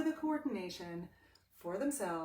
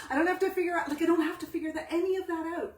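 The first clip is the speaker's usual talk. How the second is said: higher and louder insistence; emphatic; 7 semitones higher, 7 dB louder, faster than usual. Real, not acted. Teacher insisting to students, raised and emphatic. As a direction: hammer the point home.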